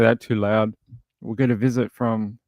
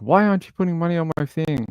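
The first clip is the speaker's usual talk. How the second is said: higher, quicker nagging voice; mock demanding whine; 5 semitones higher than usual. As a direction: imitate an inmate pestering for money.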